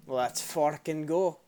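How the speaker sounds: loud, slow, drawn-out battle cry; hyped shout. Real, not acted. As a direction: pump yourself up, yell it. Hyping up for fight.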